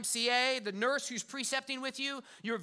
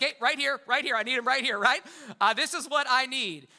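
louder, firm call to attention; dad calling his kids to focus; 5 dB louder than usual. Retold or imitated. Preacher imitating himself getting his kids to focus, firm and louder. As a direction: snap the kids' eyes onto you, half laughing. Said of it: "when I talk to my kids sometimes. I'm like".

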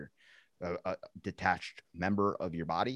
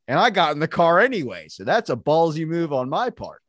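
mock outrage; 8 semitones higher, 9 dB louder than usual.

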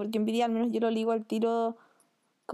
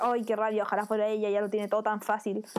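low-key resentful grumble; mildly acted bitterness; bad envy; 3 semitones lower than usual. Shown as a demonstration. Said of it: "envidia mala".

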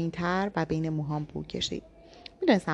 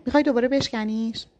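higher, louder furious challenge; angry; 6 semitones higher, 5 dB louder than usual. A narrator's reading. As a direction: throw the accusation back hard. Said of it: "عصبانی شدم و گفتم".

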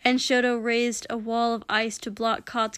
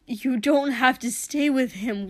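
louder pleading, pushing through; loud desperate plea; 3 semitones higher, 4 dB louder than usual. Acted. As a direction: press the plea harder. Pleading with his brother.

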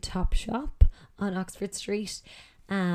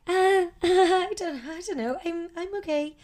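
high, slow flustered reply with a laugh; imitating a nervous young interviewee; 10 semitones higher, 5 dB louder than usual. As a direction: laugh it off, caught off guard and rattled. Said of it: "No, you are nervous".

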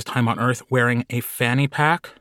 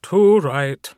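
Carl voice; 5 semitones higher than usual. Acted. Carl continues, voiced high.

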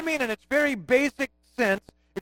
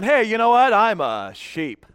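mock boast. Pastor imitating a sheep's unlikely boast, mock proud. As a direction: start chatty, then deflate on the last words. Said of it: "We're not walking around going".

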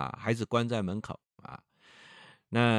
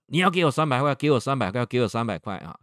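由大声吼叫渐渐降回平常; 一开始用力吼，越说越弱; 边打边吼; 3 semitones higher, 6 dB louder, faster than usual. Retold or imitated. Father beating son demanding money. (父亲打儿子时逼要钱，吼声渐弱)

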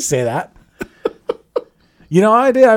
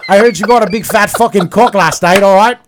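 laughing tease; 4 dB louder than usual. Acted. Teasing caller, laughing.

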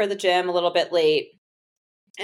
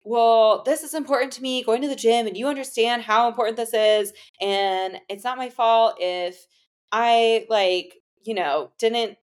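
raised, heated retelling of his outburst; retold yelling; 3 semitones higher than usual. Boyfriend snapping at her on the phone, retold half-yelled. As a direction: replay his angry rant with some heat, not a full shout. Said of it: "he started yelling at me".

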